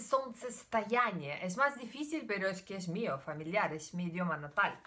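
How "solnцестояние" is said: solnцестояние said in native Russian; the Russian term solnцестояние, spoken natively; Russian word. Shown as a demonstration. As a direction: give solnцестояние its full Russian sounds. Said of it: "en ruso se dice".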